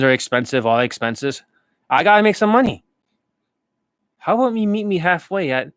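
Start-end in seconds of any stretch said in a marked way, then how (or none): 1.9-5.7 Rick haggling. Retold or imitated. Rick pleading with the seller to meet halfway, high. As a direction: push the price like a desperate pawnbroker. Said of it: "the impressions".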